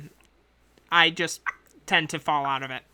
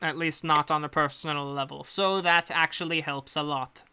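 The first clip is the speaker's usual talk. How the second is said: a lightly put-on accent for a composed agent; the employer briefing hired adventurers in her accent; hint of a foreign accent; accent NPC voice. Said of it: "she always has the accent".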